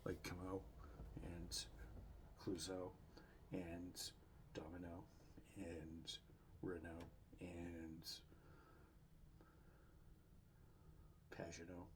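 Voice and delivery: fake French. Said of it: "that one was fake French".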